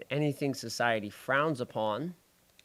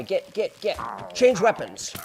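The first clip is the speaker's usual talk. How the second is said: frantic; 7 semitones higher, 9 dB louder, slower than usual. Real, not acted. Frantic during fight.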